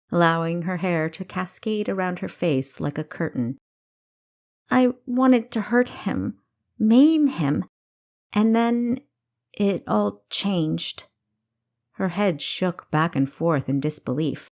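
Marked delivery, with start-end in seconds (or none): 4.7-11.0 higher, rising then slowing to a halt; agitated confession. Acted. Kessa confessing to Thomas, higher then slowing. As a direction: burst out, then lose the thread.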